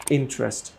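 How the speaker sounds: ইন্টারেস্ট as "IN-trest", middle vowel gone; t joined to r. Shown as a demonstration. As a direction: jump from t to r in ইন্টারেস্ট. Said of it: "ট jump করে রকে ধরে".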